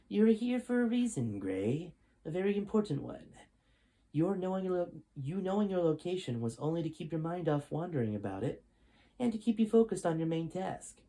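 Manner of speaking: a hint of a smug military commander; stern general. General lectures captive Gray.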